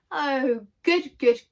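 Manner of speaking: loud joyful cry; delighted shout. Acted. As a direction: cheer with relief. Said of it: "shouted everyone".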